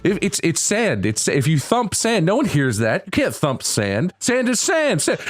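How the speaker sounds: Neil deGrasse Tyson. Retold or imitated. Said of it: "he does the Neil deGrasse Tyson thing".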